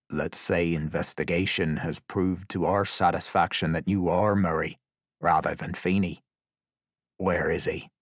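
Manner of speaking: calm menacing questioning; cold interrogator. Acted.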